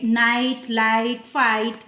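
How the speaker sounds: नाइट, लाइट, फाइट slow and stretched, each apart; slow word-by-word reading of नाइट, लाइट, फाइट; example word list. Shown as a demonstration. Teacher lists example words.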